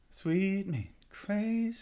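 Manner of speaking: high, very slow, thrown-away sung line; imitating the singer. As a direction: toss the words away lightly. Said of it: "she kinda throws that away".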